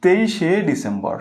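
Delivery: "তেইশে" slowly, as তেইশ-এ; slow, careful "তেইশে December"; slow model pronunciation. Shown as a demonstration. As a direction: stretch out the e ending of "তেইশে". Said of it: "তোমাকে লিখতে হবে".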